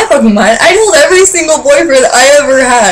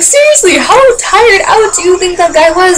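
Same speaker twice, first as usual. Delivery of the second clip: vent, higher-pitched and incredulous; real angry exasperation; 6 semitones higher than usual. Real, not acted. Fan defending the singer to viewers, real exasperated anger. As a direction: pitch climbing into an indignant rant. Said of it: "That just makes me so angry".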